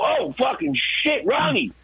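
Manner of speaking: high slow groaning dismay; oh no, we forgot him; dismayed realization. Retold or imitated. Realizing Ronnie left outside.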